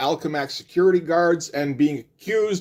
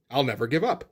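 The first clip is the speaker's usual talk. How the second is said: understated, softer than a battle cry; mock-heroic line said calmly and quietly; 6 dB quieter than usual. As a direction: drop to a soft, matter-of-fact delivery. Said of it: "where he just calmly tells them".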